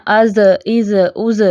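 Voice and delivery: از with a buzzing, whistled ذ; wrong buzzing zal. Shown as a demonstration. Teacher demonstrates how not to say the letter. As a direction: show the wrong ظ sound. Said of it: "اب اس کو ایسے نہیں پڑھنا".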